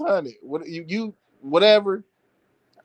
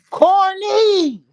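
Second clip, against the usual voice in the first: mock shout; 13 semitones higher, 5 dB louder than usual. Mocking shout of name.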